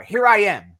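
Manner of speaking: loud, emphatic declaration; exclaimed. Acted. Answering who will go for us, exclaimed. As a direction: declare it as an eager volunteer. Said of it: "Exclamation bar".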